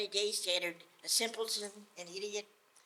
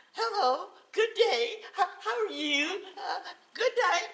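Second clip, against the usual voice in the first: high, loud, giggly hello; a grinning fool at a funeral; cheery simpleton greeting; 8 semitones higher, 7 dB louder than usual. Acted. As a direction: greet mourners with eager cheer. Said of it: "So he goes and says".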